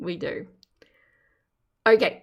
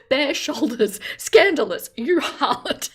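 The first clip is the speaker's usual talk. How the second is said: mock scandalised; 4 semitones higher, 4 dB louder than usual. Mock outrage at bare shoulders.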